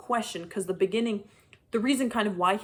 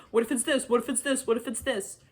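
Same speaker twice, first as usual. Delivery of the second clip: repetitive sing-song mock questions; mocking the author; 4 semitones higher than usual. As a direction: parody his aimless guessing. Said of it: "You're just being like".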